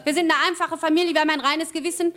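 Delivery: nachgespieltes Schreien. Retold or imitated. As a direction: retell a panicked plea of innocence. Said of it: "Ich hab nur noch geschrien". (gespielt aufgeregtes Beteuern)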